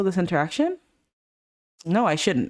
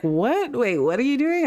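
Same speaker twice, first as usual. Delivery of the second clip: startled protest; 5 semitones higher than usual. Acted. Voicing a startled character's protest.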